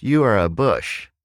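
put-on high, loud child's declaration; little child. Child names something in the yard, high kid voice. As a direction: pipe it up like a small kid. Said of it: "this little child looks up at me".

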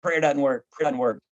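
mock whiny complaint; a hint of a fed-up churchgoer; complaining. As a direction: grumble it like a let-down believer. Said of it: "Christians complain that".

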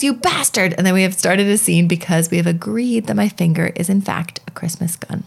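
book passage read aloud to co-host; lively read-aloud voice, acting out quotes. Podcast host reading Tina Fey's book aloud to her co-host.

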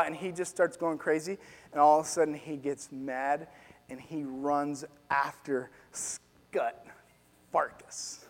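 low, soft, suspenseful narration; hushed storytelling. A narrator's reading. Preacher retelling the boy starting to cry, hushed storytelling. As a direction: drop down low and soft for the turning point.

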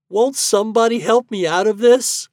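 high, loud plea for help; wailing. A narrator's reading. Herbie is stuck with sticky hands, wailing. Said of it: "wailed Herbie".

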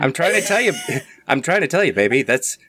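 1920s voice. Acted. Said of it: "do the nineteen twenties voice".

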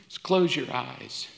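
soft, low, intimate preaching; hushed invitation. Real, not acted. Preacher asking the congregation to close their eyes, hushed.

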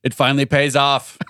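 slow, mock presidential tone; weird president voice. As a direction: deliver it like a president. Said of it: "like, a weird president voice?".

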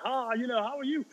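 imitating raucous schoolkids, high-pitched; mock a cheeky child's high greeting. Schoolkids greeting their teacher at school, raucous mimicry. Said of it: "they're really loud and raucous".

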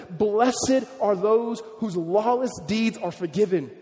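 slow, solemn scripture reading. Shown as a demonstration. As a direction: read the verse out slowly, with weight. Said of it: "And he says here, verse seven".

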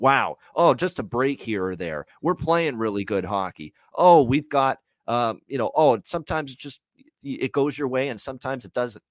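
whiny dismissive mimicry of a shrug-off quote; lightly mock the player's excuses; a hint of a careless athlete brushing it off; mocking Marner. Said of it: "this bull junk".

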